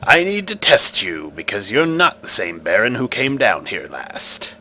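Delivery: a hint of an ancient stone guardian; a solemn, testing guardian; stone face voice.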